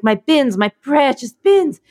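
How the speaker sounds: slow, possessive cooing over treasure; Gollum-like doting. Retold or imitated. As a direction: coo over them like precious treasure. Doting on her bins.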